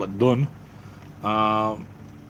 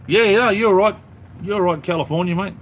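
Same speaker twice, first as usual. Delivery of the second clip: high, louder excited yeah-yeah; eager agreement; 9 semitones higher, 4 dB louder than usual. Real, not acted. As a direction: jump in to agree with real enthusiasm. Eagerly agreeing with a viewer's comment.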